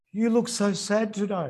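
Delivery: lightly voiced sweet fairy; a hint of a gentle fairy, softened; mild Tinkerbell impression. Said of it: "in the Tinkerbell voice".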